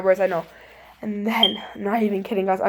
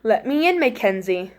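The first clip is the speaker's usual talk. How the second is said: creepy voice; 2 semitones lower, 5 dB quieter than usual. Retold or imitated. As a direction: sound like a menacing stranger. Voice heard through the door.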